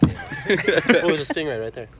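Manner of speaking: mock indignation. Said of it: "sounded like a curse word".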